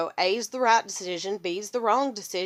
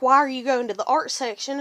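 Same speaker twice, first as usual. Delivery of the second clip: louder, demanding mimicked question; mock interrogation; 3 semitones higher, 5 dB louder than usual. Parents questioning her trip to the art section, interrogating. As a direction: imitate a prying parent's questioning. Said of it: "here's the interrogation".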